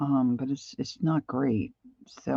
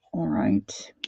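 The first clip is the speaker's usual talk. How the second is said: whisper; 3 semitones lower than usual. Real, not acted. Whispering to herself over the art journal page, all air. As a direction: whisper it to yourself while painting.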